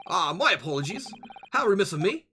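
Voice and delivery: a touch of pompous British sleuth; lightly voiced boastful detective. Detective explains his method to dear boy, lightly pompous. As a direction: lecture lightly as a self-assured detective.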